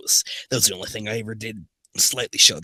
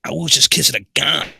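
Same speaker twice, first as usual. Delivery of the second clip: raised, loud cartoon plumber voice; Hotel Mario; 6 semitones higher, 5 dB louder than usual. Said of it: "Sonic's gonna be Hotel Mario".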